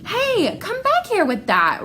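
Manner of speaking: high urgent call after her. Acted. Ramon chasing his sister, calling her back. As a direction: shout after someone running off.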